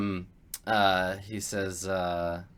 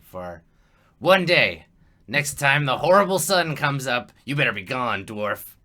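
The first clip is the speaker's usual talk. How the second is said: loud goblin threat, louder than usual; goblin warning; 5 dB louder, slower than usual. Acted. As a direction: bark the deadline at the dwarf.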